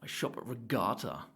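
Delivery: a hint of suave showman, purring; suave singer. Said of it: "he's real suave too".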